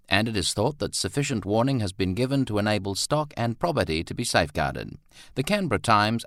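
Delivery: formal news reading with lively pitch; newspaper report. A narrator's reading. Newspaper warns of the rising river, formal news read. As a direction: read it out like an old news bulletin.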